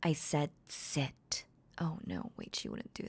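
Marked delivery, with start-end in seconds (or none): 0.0-1.4 calm, commanding mistress talking to her puppy; Makima roleplay voice. Acted. Voicing Makima as a dominant mistress.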